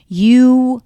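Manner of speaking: high, loud alarmed mother voice; mom's dramatic warning. Retold or imitated. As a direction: play the panicked mom scolding by letter. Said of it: "she was like".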